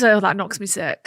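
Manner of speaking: low-pitched Scouse imitation; Scouse catchphrase. Shown as a demonstration. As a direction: try it as a Liverpudlian would. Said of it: "Sounds quite nice in our voice".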